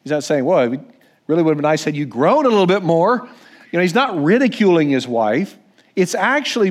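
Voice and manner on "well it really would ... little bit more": mocking husband. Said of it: "not doing it in a mocking way".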